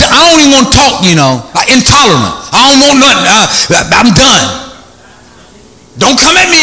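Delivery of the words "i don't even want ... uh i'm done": intolerant tone. Shown as a demonstration. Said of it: "What about intolerant tone?".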